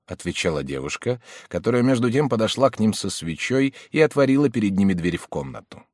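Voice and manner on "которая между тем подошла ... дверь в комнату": ordinary delivery, nothing marked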